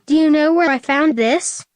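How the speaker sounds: angry. Acted. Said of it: "said Sonic angrily".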